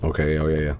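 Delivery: hushed, barely audible whisper; low murmur sinking out of earshot. Real, not acted. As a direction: keep it down as if he can hear. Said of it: "Why am I whispering".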